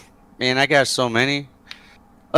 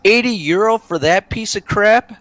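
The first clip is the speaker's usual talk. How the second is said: high-pitched outraged disbelief, rising at the end; incredulous; 12 semitones higher than usual. Retold or imitated. Customer balks at the owner's price, acted incredulity. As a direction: balk at a ridiculous price. Retold haggling over inflated price.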